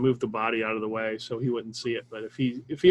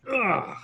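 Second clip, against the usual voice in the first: squelchy "ugh", pitched up and falling; imitated sucking sound; 6 semitones higher than usual. Player imitating a fist pulled from a body, squelchy sucking noise. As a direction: voice a wet suck as the hand pulls free. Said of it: "a sucking sound as I pull".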